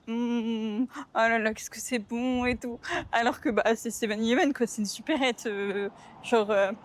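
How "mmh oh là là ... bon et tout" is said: savoring food. Shown as a demonstration. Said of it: "je suis comme ça".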